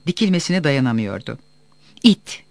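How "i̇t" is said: short, louder, higher-pitched cry of abuse; shouted insult. A narrator's reading. Furious son insulting Topal before the crowd, shouted. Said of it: "diye bağırdı".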